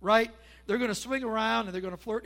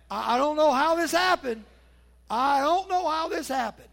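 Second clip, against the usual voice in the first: high, loud, exasperated parent voice; baffled parent; 6 semitones higher, 9 dB louder than usual. Acted. Parent puzzling over how their child turned out, loud and baffled. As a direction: throw up your hands, bewildered. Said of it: "you could say".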